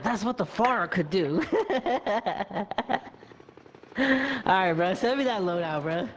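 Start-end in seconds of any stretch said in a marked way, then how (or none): 0.0-1.4 slow, drawn-out mimicry of a teammate; mocking imitation. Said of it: "This nigga's like". 1.5-3.1 laughing. Real, not acted. Laughs at his own imitation.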